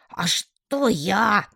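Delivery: the pet, slow and put-upon, protesting; a small creature's indignant what-me; indignant exclaim. A narrator's reading. The pet tritone protests his innocence, indignant. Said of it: "возмущённо воскликнул он".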